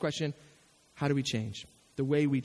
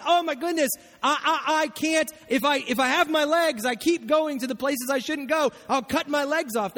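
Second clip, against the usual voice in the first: mock despair; 5 semitones higher than usual. Preacher voicing a sinner who can't stop himself, mock despair. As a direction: sound comically overwhelmed. Person imagining cutting off legs.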